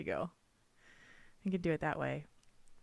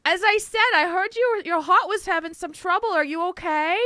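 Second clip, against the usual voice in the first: put-on higher, sweet old grandma calling to check in; grandma on the phone; 10 semitones higher, 7 dB louder than usual. Imitating grandma phoning about a heart problem, sweetly. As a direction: play the fussing grandma, sing-song and caring. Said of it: "every time she goes".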